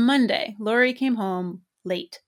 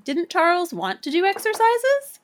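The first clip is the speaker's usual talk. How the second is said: hearty, higher pitch; 10 semitones higher, 4 dB louder than usual. Acted. Mother asking her son about Charles, hearty and bright. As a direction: sound cheerfully interested. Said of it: "I said heartily".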